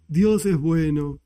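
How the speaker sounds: sugary, slow-lilting mock homily; simplistic feel-good rabbi. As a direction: parody a rabbi preaching simple, pretty platitudes. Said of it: "no un estudio ... no es algo así sencillo, y suena lindo".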